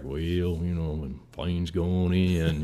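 slow, lazy southern Texas drawl; light Texas drawl on the radio; Chuck Yeager drawl. Retold or imitated. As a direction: drawl it out like a calm Texas test pilot. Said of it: "southern Texas drawl".

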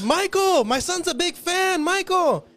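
loud, high, slow yelling of his name; insistent fan shouting; high pleading call. Retold or imitated. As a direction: beg across the crowd for attention.

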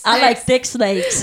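mock sultry drawl.

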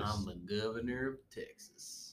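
badly faked accent drifting toward Texan; Arnold Schwarzenegger. Co-host reluctantly obeys host, half-hearted slow impression. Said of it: "Say it in an Arnold voice".

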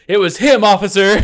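high, loud accusing cry; high witness voice. Acted. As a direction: point the finger, shrill and high.

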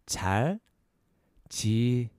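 잘 지내요 slowly, syllables apart, rising at the end; slow syllable breakdown. Shown as a demonstration. Teacher breaking down "how are you", slow syllables. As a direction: space out 잘 지내요 as a question. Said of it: "A little faster".

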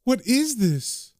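mildly acted horror at a grisly sight; a touch of alarm, voice lifting on the cries; recoil, lightly acted; horrified reaction. Horrified couple react to corpses.

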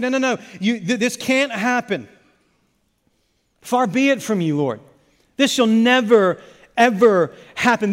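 Peter insists it can never happen; emphatic protest. Retold or imitated. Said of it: "He's like".

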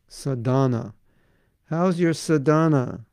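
"Sadhana" said sa-DAH-na, with a long, stressed middle vowel; shifted stress. Shown as a demonstration. Teacher showing how Eastern Europeans stress "sadhana", shifted emphasis. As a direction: lean on a drawn-out DAH in "sadhana". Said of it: "They put the emphasis on the last syllable".

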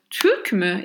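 Türk mü with a rounded ü; Turkish question. Shown as a demonstration. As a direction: ask Türk mü. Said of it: "I ask you".

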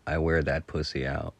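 deadpan crude joke; straight-faced. Retold or imitated. Teasing a friend about the pet cat, straight-faced. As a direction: deliver it with a straight face. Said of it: "a straight face and say".

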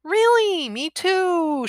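high, drawn-up fake amazement; mock surprise. Woman taunting freshly released man, mock surprise. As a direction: feign delight at the shared news.

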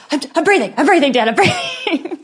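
high, loud protest through laughter; mock exasperated protest. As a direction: insist to Dad, pitch climbing, half laughing. Retold frantic protest to dad.

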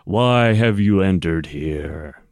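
slow, eerie disembodied voice; unearthly voice. Acted. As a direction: speak as a hollow spirit from nowhere. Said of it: "a disembodied voice say".

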